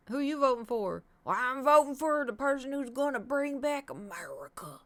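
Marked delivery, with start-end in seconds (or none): 1.2-4.8 mock voter.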